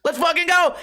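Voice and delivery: high, fired-up mock yell; rally yourself for a fight; comic fighter's war cry; hyped battle cry. Translates the chicken's fighting cry.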